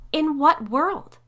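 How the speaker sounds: high, loud, slow indignant demand; loud, disbelieving challenge. Acted. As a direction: throw the question back at him, outraged. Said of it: "Sally demanded".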